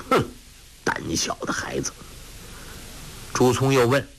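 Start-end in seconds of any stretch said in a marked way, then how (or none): 0.1-1.9 low, hushed scornful muttering; soft scolding. A narrator's reading. Han Baoju scolding the timid boy softly, under breath. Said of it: "韩宝驹轻轻骂道".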